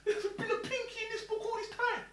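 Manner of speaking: high, laughing amazement; laughing disbelief. Retold or imitated. Realising the money was always there, laughing amazement. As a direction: laugh it out in wonder. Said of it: "So now I'm thinking".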